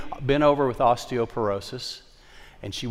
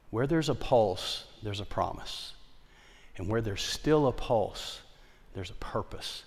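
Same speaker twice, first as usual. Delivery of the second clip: tender assurance; 3 semitones lower, 9 dB quieter than usual. Retold or imitated. Pastor quietly assuring the elderly Miss Charlene, tender hush. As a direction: comfort her gently.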